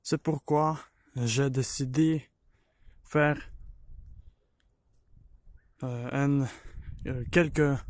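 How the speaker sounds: halting French with a Ukrainian accent; non-native French, searching for words; broken french. Real, not acted. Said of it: "Je parle un peu français".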